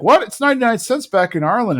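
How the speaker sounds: high-pitched incredulous retort; mock disbelief. Hank balking at the Blizzard price, incredulous. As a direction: act out a dad balking at a price. Hank's outraged reaction to price.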